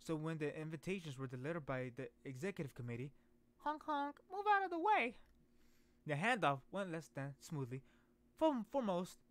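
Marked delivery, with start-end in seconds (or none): 3.6-5.2 high honking car noise; revving beeping car voice. Retold or imitated. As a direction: honk it like a pushy car. Mimics car barging through.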